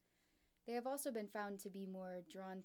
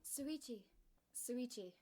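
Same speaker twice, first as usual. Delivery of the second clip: calling out; 4 semitones higher, slower than usual. Acted. Trying to wake him.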